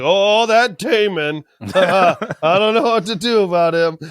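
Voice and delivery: laughing through a fussy fretting voice; mock fretting king. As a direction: play the fretful father, a bit hammed. Viserys voiced fretting over Damon.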